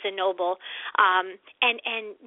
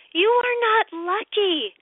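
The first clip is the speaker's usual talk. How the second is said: slow, higher, each word weighted; firm emphasis; 7 semitones higher, slower than usual. Real, not acted. Host firmly tells women they are not lucky, slow and weighted. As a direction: lay it down word by word.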